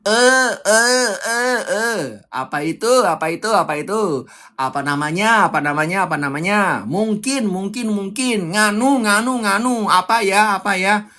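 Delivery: hesitant, stumbling filler words; filler demo. Shown as a demonstration. Coach demonstrating a speaker's fillers, hesitant stumbling. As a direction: fumble like a nervous speaker. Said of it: "kelepasan gue ngomong sekali filler".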